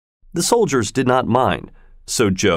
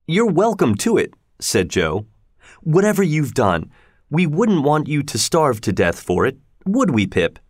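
raised, kindly blacksmith voice; kind Joe; 4 semitones higher than usual. Acted. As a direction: forgive him gently as Joe. Joe forgives convict.

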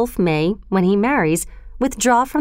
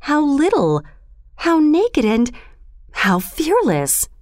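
tender, marvelling, higher-pitched opening; softly; 7 semitones higher than usual. A narrator's reading. Mother wolf admiring the naked man's cub, softly. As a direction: lift the pitch in tender wonder, not hushed. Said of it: "said Mother Wolf softly".

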